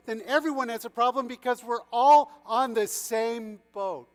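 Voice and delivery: high, loud, mounting outburst; desperate cry. A narrator's reading. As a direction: argue frantically, pounding every clause. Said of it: "The prince cried desperately".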